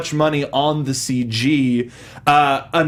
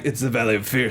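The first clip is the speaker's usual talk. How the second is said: mock ominous announcer; 6 semitones lower, 5 dB quieter than usual. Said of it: "in the script, it was like".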